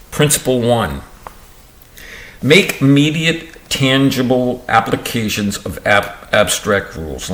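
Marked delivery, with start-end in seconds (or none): 2.4-7.3 stumbling first take. Real, not acted. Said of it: "Let me try that one again".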